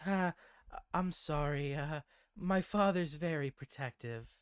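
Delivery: mildly embarrassed, lightly voiced barmaid; embarrassed apology. Barmaid apologizes to her suitor for her father, mildly embarrassed. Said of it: "embarrassed, uh, and she says".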